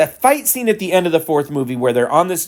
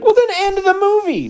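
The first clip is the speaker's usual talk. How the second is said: mock plea, much higher, in a put-on voice; exasperated plea. Bored viewer pleading with the movie to end, high mock whine. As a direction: beg the movie to just end, squeaky and fed up. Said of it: "And I'm like".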